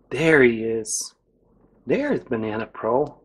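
breathy excited whisper; hushed whisper. Acted. Host whispering to children at the puppet's arrival. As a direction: whisper it like you spotted him.

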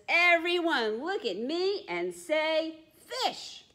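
high, slow, sing-song; little penguin photographer. Acted. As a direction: coax them to smile. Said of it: "puts his flipper on the button and says".

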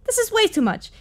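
high-pitched overwhelmed cry. Real, not acted. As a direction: squeak it out in alarm. Overwhelmed reaction.

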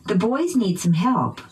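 put-on "boys" and "help" stressed by pitch; noun stress. Shown as a demonstration. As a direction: drill model, peaks on "boys" and "help". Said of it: "using pitch change".

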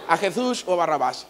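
put-on lightly Castilian Spanish accent, lisped Jesús; a hint of old-film Castilian. Official asking the crowd again, mild Spanish accent. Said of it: "hablas como españolito".

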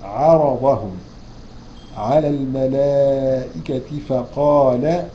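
slow, chanted recitation; Quran recitation. Acted. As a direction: recite the verse with measured tajweed. Recites the verse.

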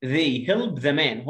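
put-on slow, clear reading for children; slow teacher read-aloud; slow model reading. Shown as a demonstration. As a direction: read it out slowly, word by word.

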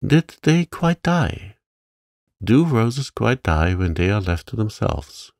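put-on a girl pressing an old gardener, rising with excitement; excited. A narrator's reading. Girl eagerly asking the gardener about roses, excited. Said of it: "Mary was becoming quite excited".

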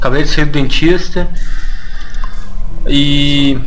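numb mouth after the dentist. Real, not acted. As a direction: speak with a numb, half-asleep mouth. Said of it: "porque eu tô com a boca meio adormecida". (boca dormente do dentista)

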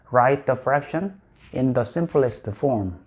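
slow, careful English read aloud; slow, deliberate textbook English; slow model reading. Shown as a demonstration. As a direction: read it out slowly for learners. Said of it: "이렇게 시험 문제가 나오는 경우도".

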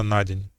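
НА stressed in «на день»; stress on the preposition. Shown as a demonstration. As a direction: let день lean unstressed on НА. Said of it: "І таких, е, прикладів може бути багато".

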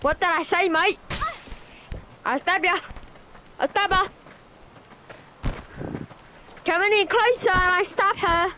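playful Australian bloke threat. Pretend. Gamer still playing an Australian bloke, mild mock accent. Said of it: "I'm acting like an Australian bloke".

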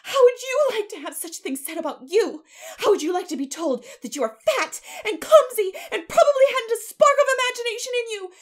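high, tearful shouting, building to screams; wounded child screaming back; furious tirade. A narrator's reading. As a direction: rage at her until the last words shriek. Child's enraged tirade at neighbor.

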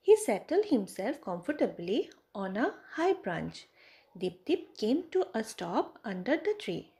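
ordinary talk

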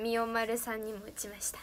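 breathy whispered aside. Real, not acted. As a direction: whisper it, almost no voice. Explaining beam quietly.

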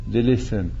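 ordinary talk, nothing marked

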